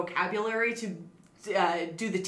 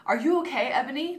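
gently; 5 semitones higher than usual. Acted. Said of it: "Draco asked me gently".

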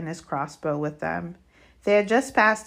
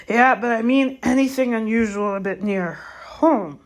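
gamekeeper, louder and higher, insistent; Hagrid; 4 semitones higher, 8 dB louder than usual. Acted. Gamekeeper presses the stargazing centaur for an answer, insistent. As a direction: push the question out loudly, pitched up.

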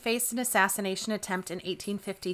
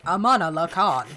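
imitating the AI's louder Amanullah Khan; louder, lightly mimicked computer reading; AI pronunciation; 6 dB louder than usual. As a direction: announce it like a pronunciation bot. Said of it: "Or as A I just said".

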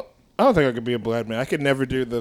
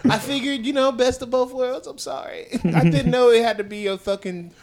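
high, laughing, sheepish excuses; laughing apology; 5 semitones higher than usual. Pretend. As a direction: giggle through sorry after sorry. Newbie apologizing about bandana.

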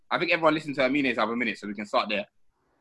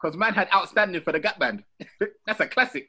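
words through laughter; laughing while talking; 7 semitones higher than usual. Real, not acted. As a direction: chuckle through the line. Laughing about the band.

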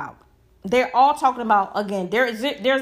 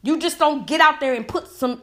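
real heated insistence, voice climbing; worked-up near-yelling; 3 semitones higher than usual. Real, not acted. Commentator lecturing rappers on studying their craft, worked-up. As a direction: insist emphatically, getting carried away. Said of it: "I'm, I'm yelling. It sounds like I'm angry".

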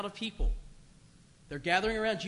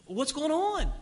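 calling out; 7 semitones higher, slower than usual. Retold or imitated. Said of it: "he calls out".

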